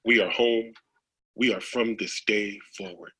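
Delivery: spoken-word poem finale; poem reading. Acted. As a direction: hand the last words gently to your partner. Poem's closing lines.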